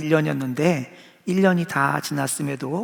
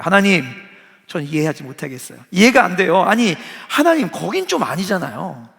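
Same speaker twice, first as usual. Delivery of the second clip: mild protest; 4 dB louder than usual. Retold or imitated. Preacher voices Jonah's rebellion.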